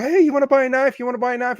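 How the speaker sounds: mock an overexcited hawker; hammed-up eager salesman; too excited. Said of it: "too excited energy that's like".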